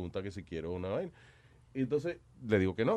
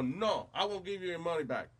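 put-on French accent; 6 semitones higher than usual. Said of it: "el tipo como tiene acento francés".

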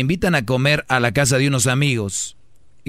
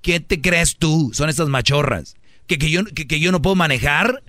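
higher, indignant mock outrage; offended retort; 4 semitones higher than usual. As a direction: play the offended woman, hammed-up and huffy. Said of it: "las otras se van a ofender".

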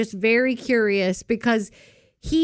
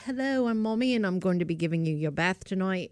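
put-on English accent; 4 dB quieter than usual. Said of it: "anytime I do an English accent".

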